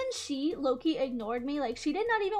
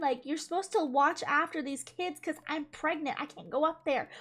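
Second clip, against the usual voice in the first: teacher yelling; 2 semitones higher than usual. Retold or imitated. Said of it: "teacher starts yelling".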